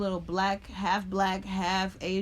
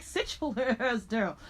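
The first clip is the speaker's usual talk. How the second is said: slow, drawn-out sassy order to sit; a girl ordering a classmate down with attitude; sassy telling off; 3 semitones higher, slower than usual. Retold or imitated. Schoolgirl telling a classmate off, slow and sassy. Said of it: "just high energy".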